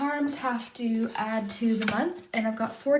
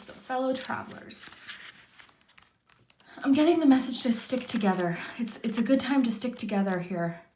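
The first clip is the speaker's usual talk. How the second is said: whispering. Real, not acted. Tarot reader sharing the card's message with viewers, whispered. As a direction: breathe the message out in a hushed whisper.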